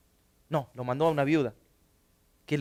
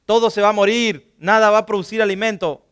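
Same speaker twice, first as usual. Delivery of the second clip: God's promise; 3 semitones higher, 6 dB louder than usual. Retold or imitated. God mildly solemn as he promises Elijah he will provide. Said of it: "Dios le dijo entonces a Elías".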